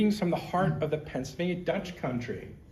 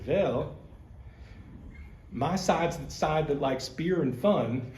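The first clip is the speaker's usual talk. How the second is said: put-on light, slow-ish Pennsylvania Dutch accent, ending in a laugh; quoting dad in a mild Pennsylvania Dutch accent; slower than usual. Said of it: "in a Dutchy accent".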